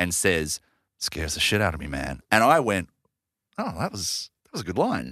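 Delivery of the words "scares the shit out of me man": imitated very hushed delivery, much lower. Retelling a man's answer about why he never drove it, retelling a very hushed line. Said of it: "It was very hushed".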